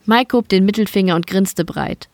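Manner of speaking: usual speaking voice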